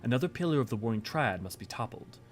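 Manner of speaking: measured, formal story reading; game dialogue reading. Acted. Ally briefing the Warrior of Light on Sophia, formal reading. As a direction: read it out like a solemn briefing.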